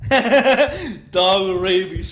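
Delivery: real laughter breaking into loud words; laughing. Real, not acted. Streamer amused by the rabid dog movie, laughing. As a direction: laugh loudly while talking.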